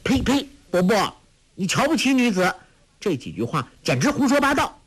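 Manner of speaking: put-on high, fast indignant girl; urgent protest. Girl protesting the monk's words about women, high and fast. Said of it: "黄蓉急道".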